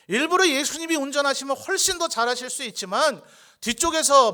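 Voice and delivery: high, loud, driving pulpit voice; impassioned sermon at full volume; full-force preaching. Acted. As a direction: preach it hard, pitched well up.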